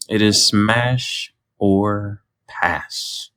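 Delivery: slow drawn-out segment title; announcer. Acted. Introducing the segment to viewers, slow announcer. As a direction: announce it like a game show host. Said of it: "segment title announced".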